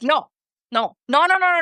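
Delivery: "no" with a short, pure Spanish O; quick Spanish-accented "no", no glide. Shown as a demonstration. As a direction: repeat "no" with a Colombian O. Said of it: "I'm like".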